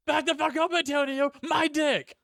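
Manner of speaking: high-pitched, barely holding back laughter; laughing movie quote. Retold or imitated. Cracking up quoting the movie to co-host, laughing high quote. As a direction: squeal the quote through giggles.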